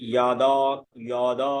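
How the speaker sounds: ইয়াদা starting with y, not j; Sanskrit y sound. Shown as a demonstration. Teacher shows the correct verse word, ইয়াদা with y. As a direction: say ইয়াদা as yada. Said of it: "উচ্চারণ হবে".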